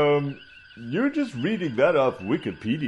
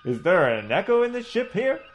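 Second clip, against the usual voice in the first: blustering Southern gentleman orator, a touch higher; pompous southern doctor; 5 semitones higher than usual. Acted. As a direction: hold forth like a pompous old Southern colonel. Coburn retorts pompously.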